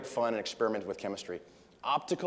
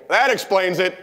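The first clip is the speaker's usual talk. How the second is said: higher and much louder gotcha; mock triumphant punchline; 8 semitones higher, 11 dB louder than usual. Comedian nailing the fan with a loud gleeful put-down. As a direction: land the put-down with glee. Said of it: "And he goes".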